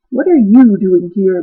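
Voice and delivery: slow stern dog voice; growled. Acted. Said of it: "growled the watchdog".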